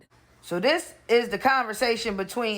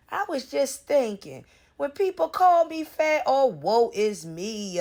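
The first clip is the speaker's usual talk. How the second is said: whiny mimicry of the post; mocking whine; 3 semitones higher than usual. Vlogger mocking Prissy's post, imitating her in a whiny voice. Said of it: "That's all you wanna do is".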